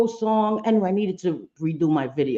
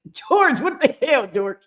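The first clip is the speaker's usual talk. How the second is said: surprised scolding; 4 semitones higher than usual. Real, not acted. To George after his prank, higher playful scolding. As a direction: call him out, half laughing.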